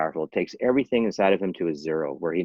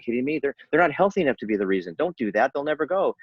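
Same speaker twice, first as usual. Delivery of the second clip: incredulous; 7 semitones higher than usual. Retold or imitated. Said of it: "It's like".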